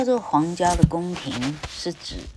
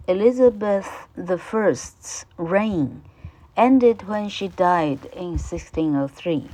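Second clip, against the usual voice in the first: careful, clear classroom reading; reading the passage aloud to students; textbook read-aloud; 3 semitones higher than usual. Acted. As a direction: read it out for the pupils. Teacher reads English textbook.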